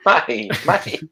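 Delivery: mock Cockney, high. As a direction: squeak it like an Oliver Twist urchin. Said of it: "I feel like I'm in Oliver Twist".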